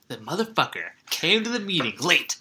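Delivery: rising to a loud high who does that; mock outrage. Quoting Pacino, rising outrage.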